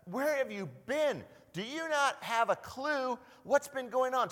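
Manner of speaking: a lightly voiced Jesus, amused; Jesus teasing. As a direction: tease the disciples like a friend. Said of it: "Jesus is kinda saying".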